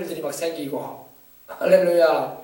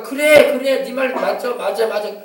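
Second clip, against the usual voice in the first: devil agreeing; 3 semitones higher, 4 dB louder than usual. Retold or imitated. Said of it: "맞장구 친단 말이에요".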